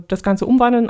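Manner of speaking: normal talking voice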